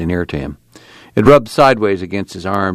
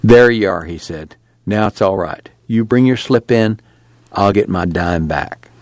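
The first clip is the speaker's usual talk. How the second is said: lightly voiced store clerk. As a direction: sell it to her, a bit smug. Clerk voiced in read story.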